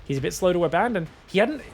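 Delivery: ordinary talk, nothing marked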